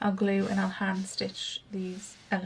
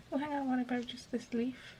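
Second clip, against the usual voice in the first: whispering to herself; 5 dB quieter than usual. Real, not acted. Murmuring to herself while crafting.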